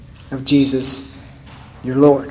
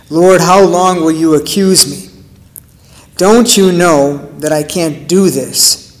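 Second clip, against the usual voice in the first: angry plea; 4 dB louder than usual. Acted. A despairing believer confronts the Lord, angry and loud. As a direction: hurl the questions at God in frustration. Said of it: "flip over into anger".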